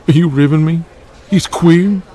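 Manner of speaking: can't believe his ears; shocked outburst. Acted. Wrestler shocked at news.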